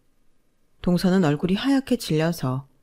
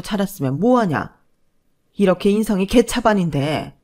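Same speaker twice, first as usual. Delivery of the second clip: angry lecture; 3 dB louder than usual. Acted. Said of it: "얼굴이 벌개지셔서 말씀하셨어요".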